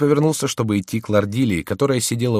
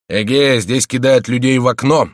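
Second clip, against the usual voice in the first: surprised exclamation; 5 semitones higher, 8 dB louder than usual. A narrator's reading. Officer walks in surprised.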